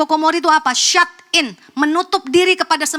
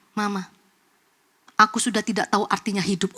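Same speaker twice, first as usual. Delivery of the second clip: despairing text message; 4 semitones lower than usual. Retold or imitated. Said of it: "Tulisannya cuman begini".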